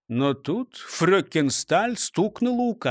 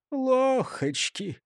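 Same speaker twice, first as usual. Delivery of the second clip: a soft, slow, higher sigh of a word; 7 semitones higher, 4 dB quieter, much slower than usual. A narrator's reading. A gloomy prisoner in his cell, sighing. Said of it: "вздохнул Густав Гейер".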